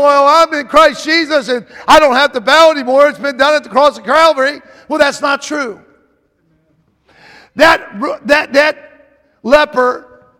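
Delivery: loud, driving pulpit delivery; fervent preaching. Real, not acted. Preaches with rising force.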